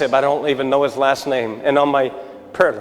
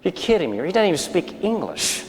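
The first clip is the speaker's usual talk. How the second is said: higher-pitched, mock disbelief; incredulous protest; 6 semitones higher than usual. Preacher retells protesting God's errand to the congregation, mock-incredulous. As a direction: retell a baffled objection, pitch lifted.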